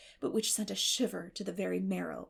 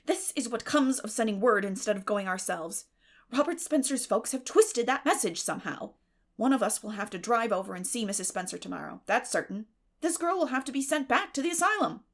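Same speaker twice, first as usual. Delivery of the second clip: louder and rising, fed up; exasperated; 5 dB louder than usual. Acted. Marilla to Matthew about sending the girl back, louder and angrier. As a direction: vent the annoyance, building to the end.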